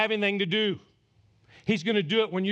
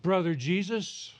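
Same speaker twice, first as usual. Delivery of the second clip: polite question; slower than usual. Retold or imitated. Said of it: "We read this very politely".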